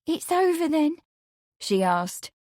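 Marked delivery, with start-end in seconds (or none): 0.0-1.0 high, hesitant rising question; pretty hesitation. A narrator's reading. Amelia seeks reassurance from Lawrence, hesitant. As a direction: ask it high and tentatively, lifting at the end. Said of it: "with a pretty hesitation".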